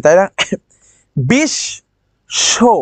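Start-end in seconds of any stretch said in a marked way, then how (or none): 1.3-2.7 বিশ, শো, each said alone with a pause; pausing between syllables. Shown as a demonstration. Teacher counting stops for students, বিশ, শো said as separate beats. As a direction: stop cleanly after বিশ and after শো. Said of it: "পাঁচবার আমি থামছি".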